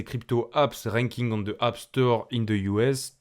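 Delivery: English words read slowly with a heavy French accent. Real, not acted. Vlogger reading an English app name to viewers, French accent. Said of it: "j'ai un bel accent français quand je parle anglais".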